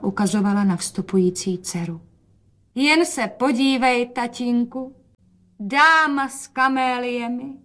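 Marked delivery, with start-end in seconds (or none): 2.7-7.6 higher, slow proud announce; proud presentation. A narrator's reading. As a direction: show off the daughter proudly. Mother presents daughter to father. (matka hrdě představuje dceru)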